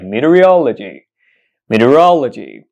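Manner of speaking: "meteorology" modelled with stress on "rol"; correct pronunciation demo. Shown as a demonstration. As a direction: repeat "meteorology" carefully as mee-tee-uh-ROL-uh-jee. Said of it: "you heard me right".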